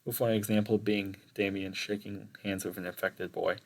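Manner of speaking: reading an essay aloud; formal report reading. Acted. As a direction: recite a school presentation.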